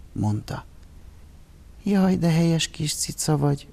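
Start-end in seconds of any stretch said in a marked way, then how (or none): 1.8-3.7 delighted. A narrator's reading. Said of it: "örvendezett Zsuzsika".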